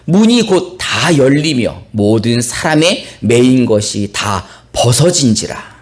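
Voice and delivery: slow, measured Bible reading; scripture reading. A narrator's reading. Pastor reads the verse to the congregation, slow formal reading. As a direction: read the verse out slowly and formally.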